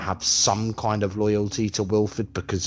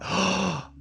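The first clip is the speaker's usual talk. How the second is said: mock amazement; 12 semitones higher than usual. Acts Josie's amazed reaction.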